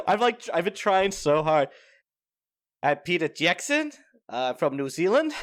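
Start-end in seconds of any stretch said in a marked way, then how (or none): 2.8-5.3 put-on New Zealand accent. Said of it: "I don't know how to do a New Zealand accent".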